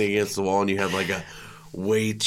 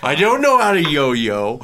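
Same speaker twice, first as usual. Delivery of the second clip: put-on whiny kid voice; 6 semitones higher, 4 dB louder, slower than usual. Mocking a kid's complaints.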